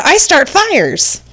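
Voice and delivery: high, slow and eerie; high creepy voice. Retold or imitated. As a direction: creep them out in a shrill whisper-thin voice. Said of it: "the voice said".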